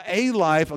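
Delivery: "a" stressed as a full "ay" before "life". Shown as a demonstration. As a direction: punch "a" to mean just one of many. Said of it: "So Jesus doesn't say".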